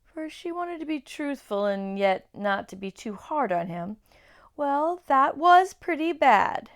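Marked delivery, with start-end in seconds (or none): 4.6-6.7 slow, careful and louder; rather slowly. A narrator's reading. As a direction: choose each word gently but honestly. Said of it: "said Lucy rather slowly".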